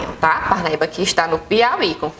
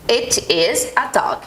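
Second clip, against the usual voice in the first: slow model sentence; much slower than usual. Shown as a demonstration. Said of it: "ele é um cachorro".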